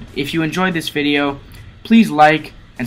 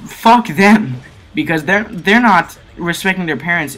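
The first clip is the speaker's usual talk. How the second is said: angry outburst; 4 semitones higher, 4 dB louder than usual. Real, not acted. Angry outburst at disrespectful teens.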